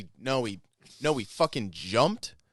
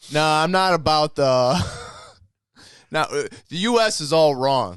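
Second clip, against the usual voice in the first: Putin impression; 4 semitones higher, 8 dB louder than usual. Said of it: "I think you should play Putin".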